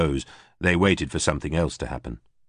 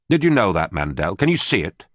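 bitter outburst; 3 semitones higher, 3 dB louder than usual. Acted.

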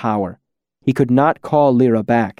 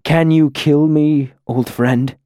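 desperate hope; 4 semitones higher than usual. Acted. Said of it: "sudden, desperate hope in his hollow eyes".

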